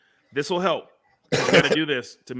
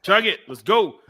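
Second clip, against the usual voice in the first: frat bro; 6 semitones higher, 5 dB louder than usual. Real, not acted. Chug chant peer pressure.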